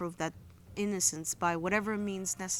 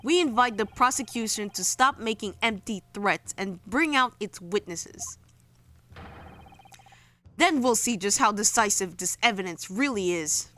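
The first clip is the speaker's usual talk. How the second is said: loud, firm courtroom declaration; bold defense lawyer; 7 dB louder than usual. Acted. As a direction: address the judge with confidence. Acting defense lawyer lines.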